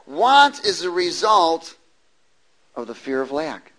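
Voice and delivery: deliberate teaching emphasis; stressed want. Shown as a demonstration. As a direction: lean on Want. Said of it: "Think about it".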